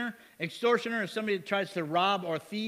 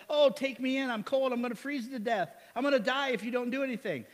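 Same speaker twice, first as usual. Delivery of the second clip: pleading snake; 5 semitones higher than usual. Retold or imitated. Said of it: "he's like".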